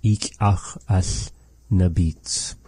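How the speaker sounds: Ik ach as nabits repeated slowly after the recording. Shown as a demonstration. Teacher repeats the recorded phrase slowly. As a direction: echo the elder's recording slowly. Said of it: "let's listen to it again".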